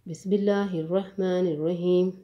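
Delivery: slightly lifted, measured recitation tone; Quranic recitation. Real, not acted. Teacher opening qaida lesson for students, measured recitation. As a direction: recite the bismillah formally, evenly.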